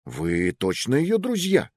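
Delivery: slow, suspicious; doubtful. Acted. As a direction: question them warily. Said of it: "усомнился служащий".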